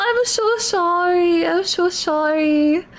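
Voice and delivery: slow, teary apology; tearful sorry. Real, not acted. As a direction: say it slowly while crying. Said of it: "I'm a little bit of a crybaby".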